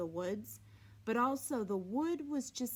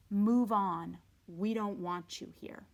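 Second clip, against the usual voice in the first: "Move on" louder, then "We don't want you here" falling away; unwelcoming fence; 3 semitones lower, 5 dB louder than usual. Acted. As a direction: reread the warning, fading at the end. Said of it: "that clearly said".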